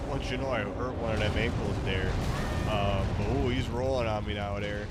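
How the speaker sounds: lightly put-on Wisconsin accent; mock Wisconsin accent. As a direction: playfully talk like a rural Wisconsin local. Copies the assigned Wisconsin accent.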